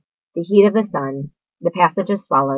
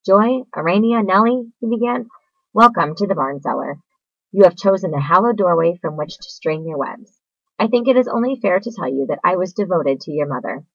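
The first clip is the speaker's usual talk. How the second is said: formal speech. A narrator's reading. Wilbur making a formal welcome speech to the spiders. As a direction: deliver a short solemn welcome. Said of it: "make a short speech".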